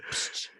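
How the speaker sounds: short voiceless "psh" noise; imitated snap sound. Shown as a demonstration. Storyteller mimicking drawers pulled on, quick "psh". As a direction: mimic underwear elastic with a puff. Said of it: "how you get that little".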